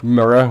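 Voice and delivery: MIRROR run together as "murr-a"; local "mirror". Shown as a demonstration. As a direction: loose Northern Irish "murr-a" for mirror. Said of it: "We can't say mirror properly".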